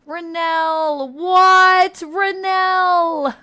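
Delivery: high, very loud yell of a name; drawn-out, high-pitched shout of disbelief; astonished shout. Real, not acted. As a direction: belt it out in real amazement. Stunned by huge bits donation.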